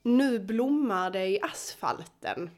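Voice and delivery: "Nu blommar det i asfalten" in native Swedish pronunciation; Swedish phrase. Shown as a demonstration. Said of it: "The phrase is".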